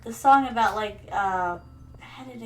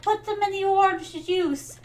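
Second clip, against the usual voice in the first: nagging mom; 7 semitones higher than usual. Retold or imitated. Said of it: "She's like".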